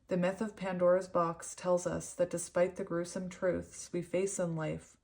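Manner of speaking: even, measured reading voice; composed narration from a book; read-aloud storytelling. Real, not acted. Reads card's story aloud.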